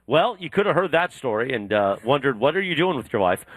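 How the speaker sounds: bright, punchy live-read voice; radio ad read. Acted. Host turns a story into a sponsor plug, upbeat ad read. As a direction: sell it like a morning-show sponsor spot.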